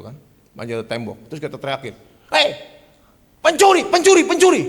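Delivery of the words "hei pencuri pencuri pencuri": high, loud yell of thief; shouting. Retold or imitated. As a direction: raise the alarm at full voice. Homeowner yelling at thief. (pemilik rumah berteriak keras "pencuri!")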